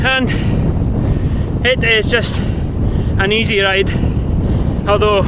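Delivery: slow, winded words between breaths; puffing on the bike. Real, not acted. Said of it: "you can probably tell I'm out of breath already".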